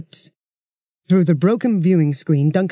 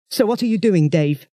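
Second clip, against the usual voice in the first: demanding. Acted. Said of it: "demanded Duncan".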